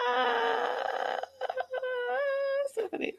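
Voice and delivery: high, breathless laugh through the words; real laughter, high and soft; laughing hard. Real, not acted. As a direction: crack up mid-sentence. Laughing at her own story.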